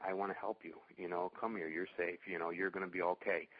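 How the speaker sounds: soft reassuring tone. Retold or imitated. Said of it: "a super soft tone".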